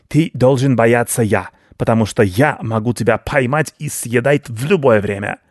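lightly voiced menacing rat in broken speech; a hint of rodent bluster; boastful rat baron. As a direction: threaten pompously as a rat baron.

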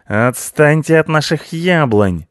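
high, loud, drawn-out cat yell; angry demand. A narrator's reading. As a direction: warn them off furiously. Cat orders beavers away. (гневное громкое требование)

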